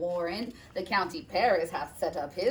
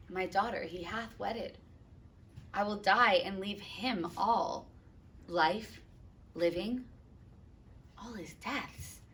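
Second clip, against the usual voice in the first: hushed, much softer mournful father; lightly voiced grieving father; 5 dB quieter than usual. Capulet's grief continues.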